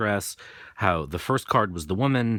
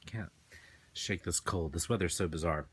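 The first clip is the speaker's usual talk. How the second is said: sniffling; 2 semitones lower, 8 dB quieter than usual. Real, not acted. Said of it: "pardon my sniffling".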